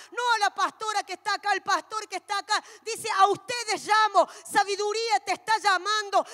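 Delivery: loud, impassioned preaching shout; booming sermon cry; full-force preaching. Acted. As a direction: proclaim it to the whole congregation.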